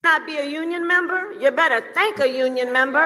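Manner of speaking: fast shouted rally line. Real, not acted. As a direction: punch it out to a crowd.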